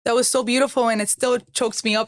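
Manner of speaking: real tears rising, voice lifting; fighting back tears as you speak; emotional, choked-up voice. Real, not acted. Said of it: "I'm getting choked up".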